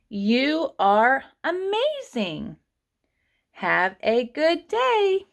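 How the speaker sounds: slow, high-pitched teacher's model reading; rereading sentences. Shown as a demonstration. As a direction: read it out slowly, lifting the pitch for young learners. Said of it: "reread all of these sentences".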